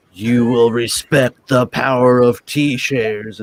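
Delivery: voice changer. Retold or imitated. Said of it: "comes in with his voice changer and says".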